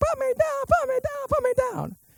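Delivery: put-on very high, soft, unbroken boy's voice. Retelling being lifted by an upperclassman, the speaker imitates his unbroken boy voice. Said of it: "my voice didn't crack yet".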